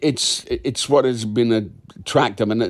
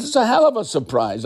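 retold outrage; 12 semitones higher than usual. Retold outraged reply to Jesse.

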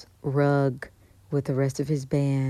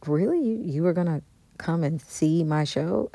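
excited; 3 semitones higher than usual. Retold or imitated. Thrilled a singer wanted to come.

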